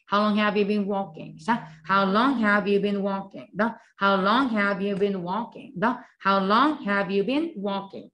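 천천히 한 단어씩 따라 하게 읽기; 학생들이 따라 하도록 또렷하게; 또박또박 시범 낭독. Shown as a demonstration. Repetition drill. (따라 하기용 느린 시범 낭독)

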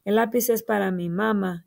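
mamá said as MA-ma at the sentence end; wrong stress on mamá. Shown as a demonstration. Teacher reading the sentence wrongly for children, mamá stressed as MA-ma. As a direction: read it with "mamá" wrongly stressed on the first syllable. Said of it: "y no se dice mamá".

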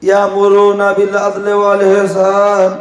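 a hint of the monotone mosque imam; imam's khutbah. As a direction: chant it like a droning Friday sermon. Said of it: "ইমাম সাহেব খুতবা দিচ্ছে".

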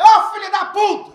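hammed-up outraged shout; mock angry shout. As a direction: storm in yelling at him. Confronting the shopkeeper.

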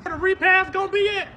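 loud high call across the crowd. Acted. Asking the crowd where the repass is, loud high call. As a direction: shout the question out to everyone.

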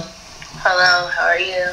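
subdued, downcast hello; sad, depressed. Real, not acted. Caller greets a host after crying, sad and depressed. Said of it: "Why you sound so sad and depressed".

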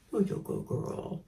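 softly whispered to the bird; whispered praise. Real, not acted.

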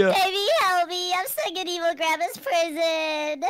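whiny pretend sob for help; mock crying plea. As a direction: beg for rescue in a hammed-up cry. Trapped friend calls for help.

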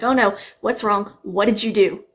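mock alarm, firing questions; retold alarmed grandma. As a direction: imitate a grandma rushing in alarmed. Retelling grandma running in, alarmed.

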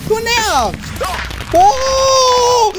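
high squealing protest; playful panic. Pretend. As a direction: shriek and whine as if being hunted in a game. Chased with the exploding potato.

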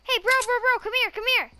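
urgent call to a teammate. Real, not acted. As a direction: raise your voice, beckoning. Calling teammate over urgently.

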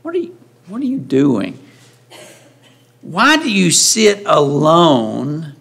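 acted disapproving father-in-law. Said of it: "that tone in his voice, can't you?".

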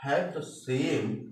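slow, deliberate reading aloud; slow dictation. Shown as a demonstration. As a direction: read each word slowly and clearly. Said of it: "reading example sentence to class". (धीरे-धीरे साफ़ पढ़ना)

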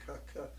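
soft cuh clucks from the back of the throat; throaty clucks. Shown as a demonstration. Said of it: "cluck that hang up sound from the back of your throat".

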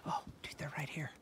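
hushed whisper to a friend. Real, not acted. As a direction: whisper so the goats stay. Spotting goats, not scaring them.

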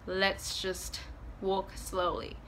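slow right down, giving in quietly; resigned slow. Retold or imitated. Giving in to her limping boyfriend, resigned and slow.

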